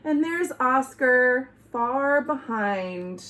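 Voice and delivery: lively, sing-song storybook voice; reading to children. Acted. Reader telling kids a Halloween dog story, lively storybook voice. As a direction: read the spooky tale to the kids with big swings. Reads picture book to children.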